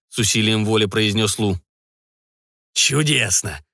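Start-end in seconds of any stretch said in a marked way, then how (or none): 2.7-3.6 laughing. Acted. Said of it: "засмеялся Готье".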